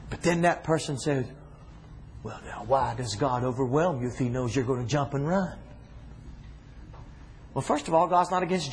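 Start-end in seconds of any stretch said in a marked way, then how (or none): 2.2-5.6 low, softened questioning voice; sceptical objector. Acted. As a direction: lightly act a doubter asking why.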